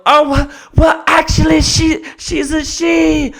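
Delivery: high, loud, whiny helpless owner; hammed-up falsetto dithering owner; flustered dog owner. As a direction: squeal like a useless owner in a panic. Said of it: "they go".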